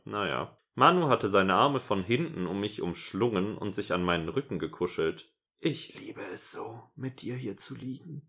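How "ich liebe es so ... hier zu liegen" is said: whispering. Acted. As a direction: breathe it softly to her. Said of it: "flüsterte er".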